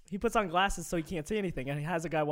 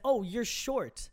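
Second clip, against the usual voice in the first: offhand remark; 3 semitones higher, much slower than usual. Retold or imitated.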